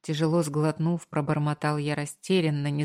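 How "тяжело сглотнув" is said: ordinary delivery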